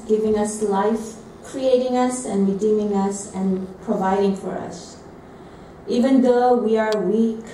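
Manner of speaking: slow, measured spoken prayer. Real, not acted. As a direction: pray aloud slowly, phrase by phrase. Prays aloud to God.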